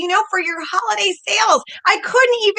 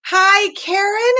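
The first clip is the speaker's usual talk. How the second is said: stiff formal greeting; 2 semitones higher, much slower than usual. Retold or imitated. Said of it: "do I say".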